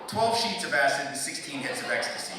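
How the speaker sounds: building emphatic list. Acted. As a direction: lay each drug on heavier. Listing drugs for effect.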